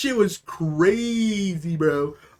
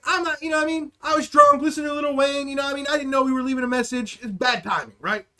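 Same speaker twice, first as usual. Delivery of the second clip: higher-pitched, pleading excuse; retold nervous excuse; 5 semitones higher, faster than usual. Explaining a drunk voicemail to the trucker, nervous backpedalling. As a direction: imitate scared backpedalling, pitched up. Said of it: "I'm pooping my pants a little bit".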